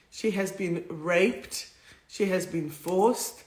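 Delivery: slow, hushed, holding back tears; slow down as it starts to get to you; getting emotional. Real, not acted. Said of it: "I'm getting a bit emotional".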